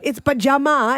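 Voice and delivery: put-on dad lecturing the kids in the carpool, fired up. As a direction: rant proudly about the Indian word. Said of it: "He was so fired up about it".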